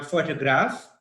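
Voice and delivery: photograph stressed on the first syllable PHO. Shown as a demonstration. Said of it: "stress is on the first syllable".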